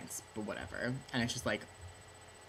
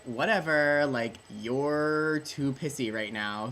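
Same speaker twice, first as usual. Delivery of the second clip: dismissive king; 4 semitones higher, 6 dB louder, slower than usual. Retold or imitated. King brushing off Hotspur.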